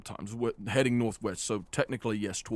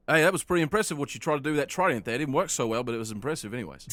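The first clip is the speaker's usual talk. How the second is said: quick, louder teasing; teasing half-orc; 4 semitones higher, 4 dB louder, faster than usual. Acted. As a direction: rattle off a cheeky compliment. GM voices Thorn teasing.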